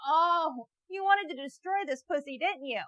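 high, loud taunting shout; yelling at a creep on the street; mock harassing yell. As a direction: chase him down the street yelling. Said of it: "It's like".

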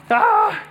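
high, drawn-out "ah"; exclaimed "ah". Real, not acted. Preacher checking the time, high exclaimed "ah". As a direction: let out a long, high-pitched "ah".

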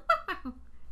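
high imitated chuckle; clown's self-satisfied laugh. Clown left alone after decapitation, high imitated chuckle. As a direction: laugh to yourself, high and pleased. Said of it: "laughing to himself".

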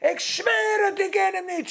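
high-pitched sworn protest; swearing denial. Retold or imitated. Preacher voicing Petrus at the fire, swearing in high-pitched denial. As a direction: imitate someone desperately swearing innocence. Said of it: "Met vloeken en zweren".

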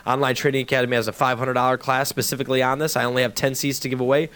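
upbeat call-in promo over music; radio ad read. Acted. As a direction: push listeners to call right now. Radio host pitches giveaway.

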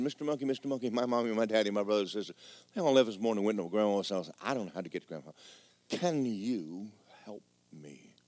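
lightly voiced small creature pleading, fading to soft; little creature.

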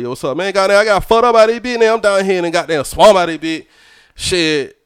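lightly put-on hometown Georgia talk; Georgia accent. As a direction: talk like on the phone with Georgia friends. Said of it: "that's how niggas talk where I'm".

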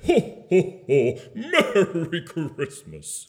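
jolly Santa. Acted. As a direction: classic Santa greeting, unhurried. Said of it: "just normal again".

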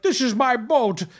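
mock Dutch accent. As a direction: play the Dutch guy claiming his boat. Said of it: "Why you talk like that?".

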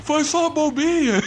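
high, laughing, deafened friend; too loud because he can't hear; talking loudly. Retold or imitated. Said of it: "E falando altão, porque ele tava surdo".

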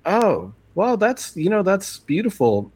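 put-on high, slow old man being polite. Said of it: "And he's like".

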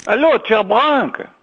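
put-on Portuguese with a thick French accent. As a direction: play a French caller on a radio show. Caller plays Frenchman Olivier. (sotaque francês)

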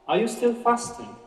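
high, puzzled supervisor voice; lightly voiced supervisor, surprised; supervisor asking. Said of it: "asked the supervisor".

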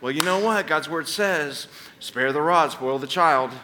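lightly put-on preachy counsel; all spiritual. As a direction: hand down scripture like a know-it-all. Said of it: "said something all spiritual like".

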